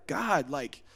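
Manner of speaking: soft, level address to God; calm prayer. Acted. Believer talking to God plainly, calm and soft. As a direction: speak it composed, with no whine. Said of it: "get on the same frequency".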